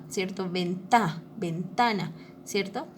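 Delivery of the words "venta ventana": "ventana" with extra push on "ta"; stress on TA. Shown as a demonstration. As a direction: break at "venta", then the whole "ventana", leaning on "ta". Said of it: "mi voz tiene que esforzarse un poquito más". ("ventana" con fuerza en la sílaba "ta")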